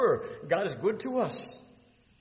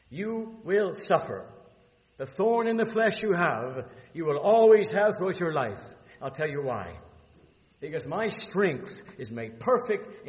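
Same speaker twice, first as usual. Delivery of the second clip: voice of God; 6 dB louder than usual. Acted. God warning Paul he will suffer, loud and commanding. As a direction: thunder it as God speaking to Paul. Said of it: "Because God said".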